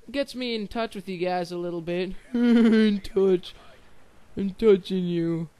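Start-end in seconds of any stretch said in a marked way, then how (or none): 2.3-5.6 laughing innuendo. Pretend. Jokey innuendo.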